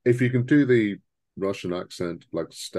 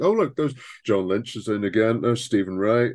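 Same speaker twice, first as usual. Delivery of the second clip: higher, louder imagined viewer spotting familiar faces; mock recognition; 4 semitones higher, 4 dB louder than usual. Telling co-host how viewers spot the same cast, mock recognition. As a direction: imitate a viewer pointing out each actor.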